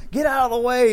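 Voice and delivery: mock shove-aside shout. Sick people shoving through crowd.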